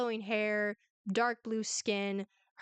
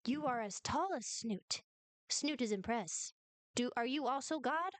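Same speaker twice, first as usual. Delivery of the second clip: Snoot. Acted. Game master voices Snoot.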